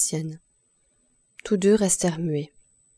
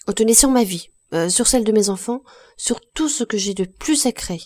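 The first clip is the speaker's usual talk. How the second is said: pleading cry; 3 semitones higher, 3 dB louder than usual. Acted. Gervaise swears to the blacksmith she is innocent, pleading cry. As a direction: swear it, crying out your innocence. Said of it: "elle cria".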